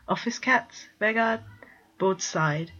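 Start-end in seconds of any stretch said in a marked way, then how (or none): 0.1-1.4 incredulous. Acted. Bord incredulous at office cats.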